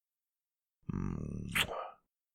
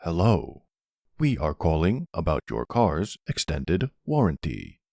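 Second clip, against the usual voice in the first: flat robotic scam call voice. Retold or imitated. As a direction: read it like an automated robocall. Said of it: "like, the robotic voice".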